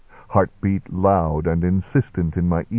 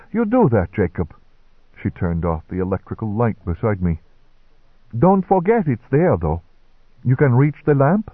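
kindly nurse voice; 3 semitones higher than usual. Acted. Hortense, high nurse voice.

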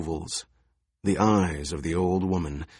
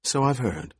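put-on wheezing old woman; 4 semitones higher than usual. A narrator's reading. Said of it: "wheezed the old woman".

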